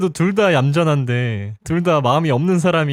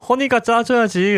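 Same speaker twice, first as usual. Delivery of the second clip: cutesy demand; 8 semitones higher than usual. Retold or imitated. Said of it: "라고 하면서".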